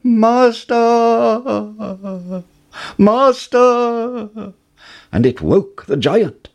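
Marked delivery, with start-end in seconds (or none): 0.0-1.4 much higher, loud desperate cry; a shrill alarm to wake its owner; harp crying out. A narrator's reading. The magic harp calling the giant for help, loud cry. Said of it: "the harp cried". 3.0-4.5 much higher, loud desperate cry; a shrill alarm to wake its owner; harp crying out. A narrator's reading. The magic harp calling the giant for help, loud cry. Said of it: "the harp cried".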